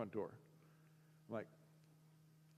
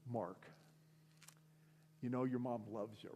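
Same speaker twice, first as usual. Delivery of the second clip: earnest pastor; 3 semitones lower, 6 dB quieter than usual. Retold or imitated. Voicing pastor's earnest appeal.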